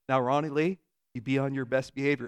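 lightly imitated Southern mother; a hint of Mom's Southern scolding; Southern mom accent. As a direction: remind a child to behave in a Southern accent. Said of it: "has a very thick Southern accent".

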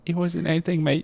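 amateur Australian with a matey lilt; attempted Australian accent. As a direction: play up a put-on Australian accent. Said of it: "both trying to do Australian accents".

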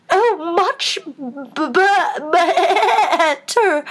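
high squeaky voice breaking into a bleat; Queen turning into a sheep; squeaking bleat. A narrator's reading. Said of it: "her voice rising to a squeak".

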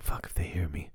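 worried whisper. Retold or imitated. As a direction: hush it so the kids won't hear. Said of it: "'cause I'm like".

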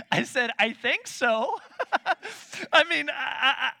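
laughing through the words; can barely get it out for laughing. Real, not acted. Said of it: "laughing at joyful noise question".

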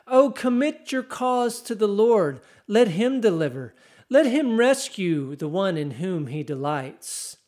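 mocking taunt. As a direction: taunt him like the crowd at the cross. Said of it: "That's all mockery".

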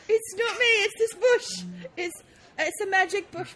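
put-on protesting child in Cockney, a bit high. Child blaming a bush to mother, put-on Cockney. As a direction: whine innocence in mock Cockney. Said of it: "'cause I'm definitely Cockney".

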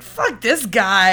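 loud, drawn-out mock indignation; slow, punchy scoff at someone's opinion; mock dismissive. Imitating an actor hearing someone dislikes a singer, mock dismissive. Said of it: "Jake Gyllenhaal's like".

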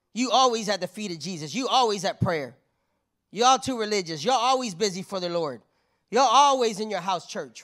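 loud, punchy mock complaint; mock accusation. Unwise virgins nagging the wise ones, loud mock complaint. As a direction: throw each charge out loudly.

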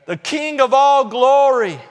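high, drawn-out shouted invitation; ringing preacher's cry; calling out. Acted. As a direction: call across the whole congregation. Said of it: "he's calling out to you".

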